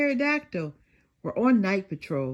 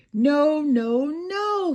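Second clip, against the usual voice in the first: firm no; 7 semitones higher, 6 dB louder, much slower than usual. Acted. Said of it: "said Detective Dinosaur".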